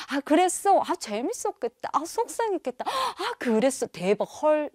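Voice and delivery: put-on high, animated responses to a child; lively, hammed-up interest; keen listener reactions. Shown as a demonstration. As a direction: react with eager sympathy and amazement. Models a parent's keen listening reactions.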